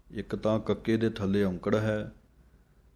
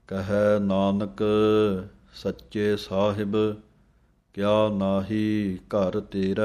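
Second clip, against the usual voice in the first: measured, chanted scripture reading; slow recitation; 4 dB louder, slower than usual. Shown as a demonstration. Teacher chanting scripture slowly for students to copy.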